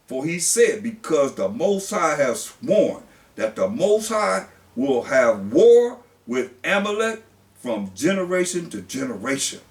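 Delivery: solemn pulpit reading; scripture reading. Acted. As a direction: read it out like the word of God.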